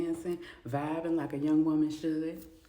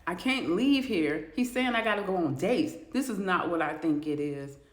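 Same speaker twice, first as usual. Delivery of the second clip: freaking out; 5 dB louder than usual. Acted. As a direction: stutter in rising panic, slowing on "can't leave". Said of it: "she's freaking out".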